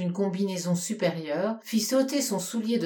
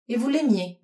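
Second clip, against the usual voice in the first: piqued; 4 semitones higher than usual. Acted. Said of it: "d'un ton piqué".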